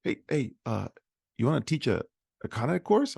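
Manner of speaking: spunky, high-pitched patter; high, peppy impression of a fast talker; John. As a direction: imitate an eager mentor's rapid-fire pitch. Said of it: "He's real spunky, fast talking".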